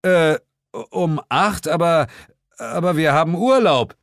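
high, stammering objection; dismayed protest. Acted. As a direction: protest haltingly to your boss.

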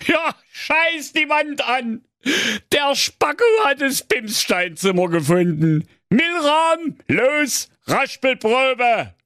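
hoher, jubelnder Königsruf, gedehnt; begeisterter Ausruf. Acted. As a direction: platz vor Freude wie ein König. (König jubelt über den Fund, hoch und laut)

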